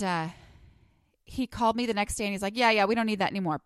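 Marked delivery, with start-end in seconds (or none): 2.6-3.6 put-on fast, brusque New York accent. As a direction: rattle it off like a New Yorker. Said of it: "that's my New York accent".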